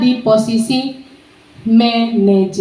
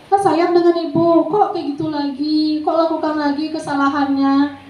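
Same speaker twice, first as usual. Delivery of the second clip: guilt-tripper; 3 semitones higher than usual. Shown as a demonstration. Teacher makes a student feel guilty, mild plaintive reproach. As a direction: start high and let it sag into a guilt trip. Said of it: "orang lain merasa bersalah itu suaranya".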